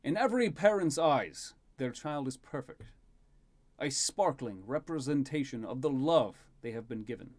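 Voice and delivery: lightly voiced king, sincere speech; proud fatherly king. King smiling at his son before guests, proud sincere address. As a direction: speak proudly of a son, gently formal.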